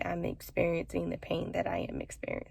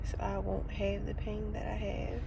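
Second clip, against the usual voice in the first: holding back tears; 3 semitones higher, 4 dB quieter than usual. Real, not acted. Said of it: "so I'm trying not to cry".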